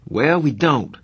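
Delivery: snapped. A narrator's reading. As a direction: snap back, stung. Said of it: "I snapped".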